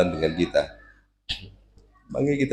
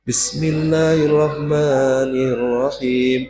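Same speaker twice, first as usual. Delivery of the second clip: high, slow, languishing chant; sighing, sultry recitation; 5 semitones higher, much slower than usual. Shown as a demonstration. Example of what women should avoid, sighing recitation. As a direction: stretch it into a long swooning sigh. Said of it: "jangan suara sing mendesah".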